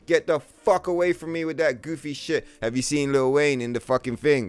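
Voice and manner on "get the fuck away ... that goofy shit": high, loud hammed-up outrage; riled-up, performed tirade; mock angry rant. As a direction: tell them off at a raised pitch. Acted rant at update askers.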